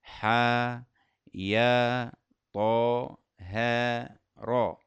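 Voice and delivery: حا يا طا ها را with a plain long vowel, no hamza; letters without hamza. Shown as a demonstration. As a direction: say each letter name shortly. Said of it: "نقول".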